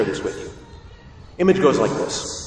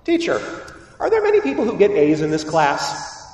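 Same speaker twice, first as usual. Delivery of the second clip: eager student; 3 semitones higher than usual. Retold or imitated. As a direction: play a keen student pestering the teacher. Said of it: "somebody going to a teacher".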